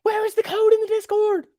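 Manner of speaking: breathy, high whisper. Pretend. Streamer reading a chat question in a whispered voice. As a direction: hiss the question like a secret.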